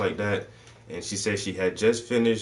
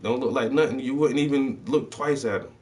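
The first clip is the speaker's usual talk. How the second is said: incredulous; 4 semitones higher than usual. Retold or imitated. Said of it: "She said".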